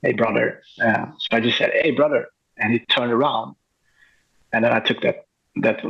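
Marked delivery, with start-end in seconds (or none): 1.7-2.3 mild mock call-out, pitched up a little; retold shout. Photographer hailing a boy to turn around, retold as a mild shout. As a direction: call out lightly, as if hailing someone. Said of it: "just shouted".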